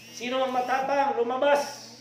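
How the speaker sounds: put-on loud high drunken taunt; drunk's challenge. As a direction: bellow the dare at the neighbours. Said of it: "Sabi niya / naghamon ng away".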